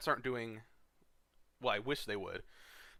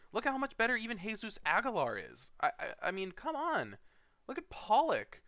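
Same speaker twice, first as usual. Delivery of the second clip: much higher, louder rant; exasperated rant; 10 semitones higher, 5 dB louder than usual. Real, not acted. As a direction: pile on the examples, fired up. Ranting at a bad pick.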